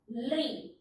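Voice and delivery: ली said as a clear, separate teaching syllable; spoken like a classroom pronunciation drill; teacher's model sound. Shown as a demonstration. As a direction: model ली slowly for pupils to repeat. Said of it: "इसको हम बोलेंगे".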